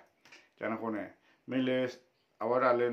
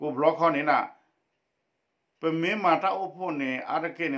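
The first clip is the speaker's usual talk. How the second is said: raised, projected read-aloud voice; 4 semitones higher, 5 dB louder than usual. Acted. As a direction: read the text out to a class in phrases. Reads a text aloud.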